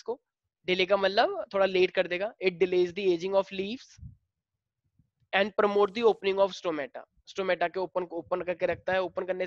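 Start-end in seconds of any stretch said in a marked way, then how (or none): 2.4-7.0 each word spaced out slowly for writing; slow classroom dictation pace. Shown as a demonstration. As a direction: read it slowly so the class can copy.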